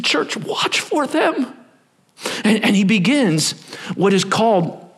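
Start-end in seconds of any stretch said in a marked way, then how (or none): 0.0-1.5 Church, watch for them, drawn out and slow; slow warning. Retold or imitated. Apostle Peter warning the church, slow and earnest. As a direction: plead with the church slowly. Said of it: "He said".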